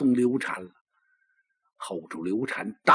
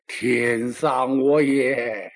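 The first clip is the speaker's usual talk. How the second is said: mild weeping lament; much slower than usual. Acted. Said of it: "醒过来之后是接茬哭啊".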